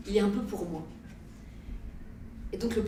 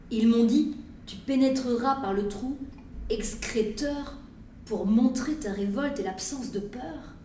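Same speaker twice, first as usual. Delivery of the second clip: poem recitation. Acted. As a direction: declaim each line, letting the silences weigh. Reads her poem aloud. (lecture de poème solennelle et appuyée)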